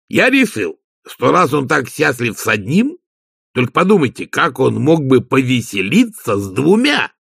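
earnest servant explaining his pet project; Igor, eager servant. Acted.

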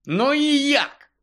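Harry feverishly demands how to check; feverish question. A narrator's reading. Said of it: "запитав гарячково Гаррі".

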